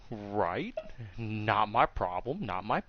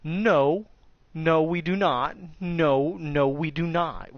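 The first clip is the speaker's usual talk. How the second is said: higher, emphatic refusal, repeated; imitated hasty denial; 5 semitones higher, slower than usual. Students denying any complaint to master, emphatic. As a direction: deny it firmly before it lands.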